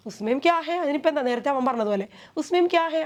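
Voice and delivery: light mock echo of the younger boy; mocking imitation. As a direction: tease by parroting his words. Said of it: "നട്കട്ടിനെ അനുകരിച്ചുകൊണ്ട് ചേട്ടൻ പറഞ്ഞാണ്".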